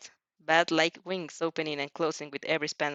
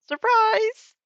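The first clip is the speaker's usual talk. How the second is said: high, loud teasing surprise; spring it on him with a grin; wicked surprise; 7 dB louder than usual. Acted. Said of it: "in a wicked smile".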